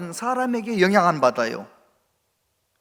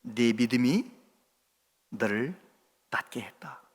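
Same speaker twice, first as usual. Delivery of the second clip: much softer, fading to a whisper on "낫게 했다"; tender praise; 10 semitones lower, 12 dB quieter than usual. Retold or imitated. Jesus praising Bartimaeus, soft fading to whisper. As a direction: bless him gently, almost breathless. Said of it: "칭찬하시는 거예요".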